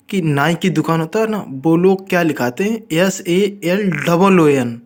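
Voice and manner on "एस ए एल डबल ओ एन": slow spelling. Shown as a demonstration. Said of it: "spelling letters slowly".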